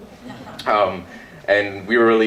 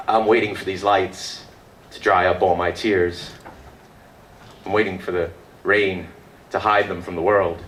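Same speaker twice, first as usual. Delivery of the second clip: poetry recital. Acted. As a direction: recite a poem line by line, understated. Recites own poem on stage.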